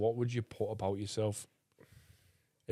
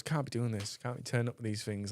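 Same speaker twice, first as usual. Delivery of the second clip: softer, subdued grumble; dead quiet; 6 dB quieter than usual. Retold or imitated. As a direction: imitate him moaning quietly to his agent. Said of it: "just, like, dead quiet and stuff".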